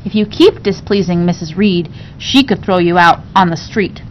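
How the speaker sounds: kind voice. Acted. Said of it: "Abbott said in a kind voice".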